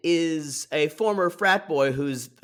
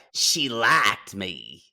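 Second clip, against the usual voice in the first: slow, lower mock Chicago accent; 4 semitones lower, much slower than usual. Host quoting the contestant on his date, mock Chicago accent. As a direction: drag it out with Chicago vowels. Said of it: "He almost has a Chicago accent".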